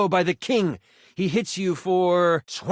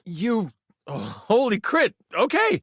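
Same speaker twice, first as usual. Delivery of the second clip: surprised; 7 semitones higher than usual. Real, not acted. GM reacts to rolled crit.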